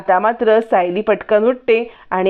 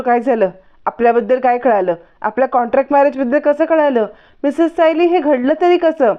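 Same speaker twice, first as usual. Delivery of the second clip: questions climbing into higher-pitched, mildly acted alarm; mild panic; 4 semitones higher than usual. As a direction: build a touch of panic question by question. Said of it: "Arjun खूप panic होतो". (थोडं घाबरून, panic झाल्यासारखं)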